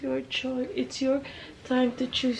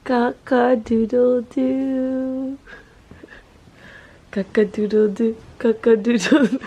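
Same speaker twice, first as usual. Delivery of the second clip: rooster crow; 2 semitones higher, 8 dB louder than usual. Pretend. Parent playfully crowing to wake the child.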